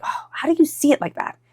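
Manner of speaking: high-pitched, baffled exasperation; mock annoyance. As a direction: act out being annoyed by someone's logic. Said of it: "you can get annoyed and be like".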